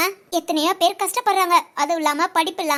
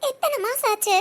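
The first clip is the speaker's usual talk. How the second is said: quiet sad lament; 3 dB quieter than usual. Acted. Wife laments softly to husband.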